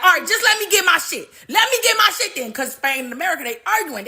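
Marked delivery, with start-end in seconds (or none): 0.0-2.5 whiny. Retold or imitated. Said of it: "they was like".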